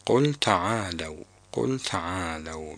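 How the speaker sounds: تعالوا said ta'aalaw, fatha on the lam; تعالوا with fatha, the correct form; open lam. Shown as a demonstration. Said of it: "بفتح اللام".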